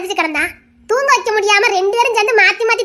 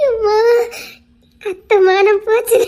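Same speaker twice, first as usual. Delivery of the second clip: embarrassed laugh; 2 semitones higher, slower than usual. Acted.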